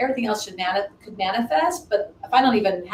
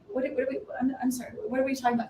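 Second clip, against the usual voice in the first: baffled; 4 semitones higher, 7 dB quieter, much faster than usual. Retold or imitated. Baffled by client's surprise offer.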